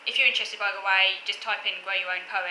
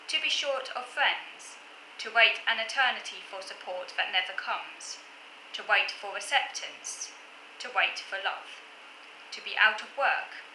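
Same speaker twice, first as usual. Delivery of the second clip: poem recitation. Acted. Vlogger reading a self-written autism poem to viewers, poem recitation. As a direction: read each line deliberately, pausing between them. Reads own poem aloud.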